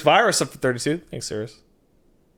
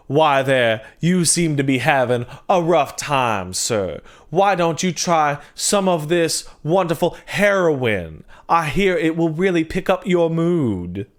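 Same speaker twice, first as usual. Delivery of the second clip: smarmy doctor; 2 semitones higher than usual. Acted. Voicing a doctor offering heroin.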